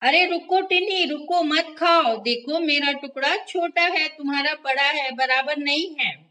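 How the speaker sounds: high, loud cry of stop; shouting. A narrator's reading. Mini shouting at Tiny not to eat, high and loud. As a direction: yell stop like an upset mouse. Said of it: "मिन्नी चिल्लाई".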